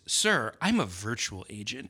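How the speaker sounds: mock-offended agent, drawn out with pitch swoops; aggrieved imitation. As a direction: imitate a slightly wounded phone agent, slowly. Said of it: "in an aggrieved voice".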